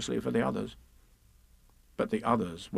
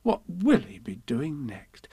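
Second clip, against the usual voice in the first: slow motherly wondering; drawn-out, lilting question; indulgent Kanga; 2 semitones higher, slower than usual. Acted. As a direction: marvel indulgently at a child. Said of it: "she went on".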